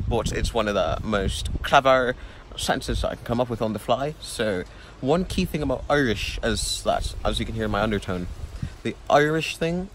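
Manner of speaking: put-on Irish accent. Shown as a demonstration. Explaining the key thing about Irish, Irish accent. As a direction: speak in an imitated Irish accent. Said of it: "this is my Irish accent".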